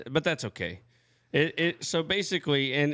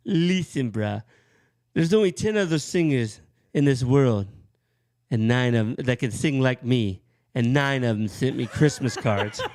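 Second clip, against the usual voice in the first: imitating Dave's laid-back swagger; mild mock rock-singer boast; a hint of Dave; Dave Brooks impression; 4 dB louder than usual. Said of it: "how's he say it?".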